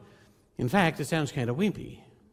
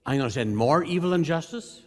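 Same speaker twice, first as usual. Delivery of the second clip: incredulous paraphrase; 4 dB louder than usual. Retold or imitated. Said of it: "And your answer is".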